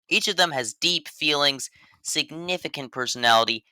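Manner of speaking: slow, fake-earnest praise; deadpan sarcasm. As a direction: keep a straight face, barely. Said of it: "I really tried to say it with a straight face".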